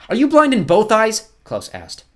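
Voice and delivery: high, loud, slow disbelief; exasperated boy. Acted. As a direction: call out the villain, high and drawn out. Boy argues with villain.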